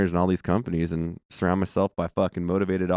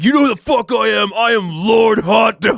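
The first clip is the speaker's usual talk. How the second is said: pompous lord; 14 semitones higher, 7 dB louder than usual. Retold or imitated. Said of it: "he's like".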